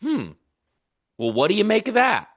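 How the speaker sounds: curious. Retold or imitated. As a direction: wonder aloud with open curiosity. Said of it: "I always lead with curiosity".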